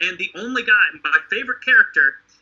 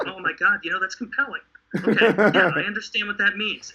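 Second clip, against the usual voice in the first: laughing mock convinced crowd. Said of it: "they'd be like".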